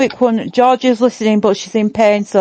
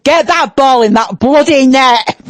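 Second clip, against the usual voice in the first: slow, broad Yorkshire delivery; Yorkshire accent. Pretend. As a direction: give a team order in a Yorkshire accent. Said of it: "In my Yorkshire accent".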